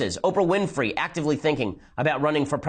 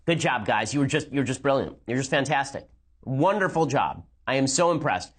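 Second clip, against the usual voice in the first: sarcastic praise. Acted. Mock praise of the press.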